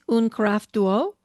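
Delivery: "un carafe d'eau" said in a self-conscious English speaker's French; attempted French. Shown as a demonstration. Ordering water in a Paris café, in her own shaky French. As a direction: try out the French for a carafe of water, not quite right. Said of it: "I said it like I just did".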